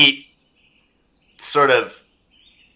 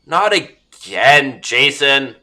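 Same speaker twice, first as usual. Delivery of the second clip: fed up; 4 semitones higher, much slower than usual. Acted. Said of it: "he sighs like he's fed up".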